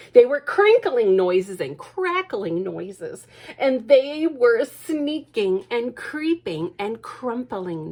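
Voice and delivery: drawn-out, each word savoured; slow spooky build. A narrator's reading. Storyteller slowing down to thrill the child. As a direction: stretch the creepy words slowly.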